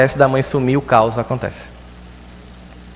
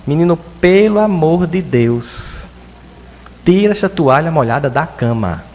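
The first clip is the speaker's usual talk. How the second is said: high, loud and slow exasperated mom; a mother scolding her son over the wet towel, drawn out; mother's scolding intonation; 4 semitones higher, 3 dB louder than usual. Retold or imitated. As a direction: drag it out like a fed-up mother. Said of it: "ela faz com entonação".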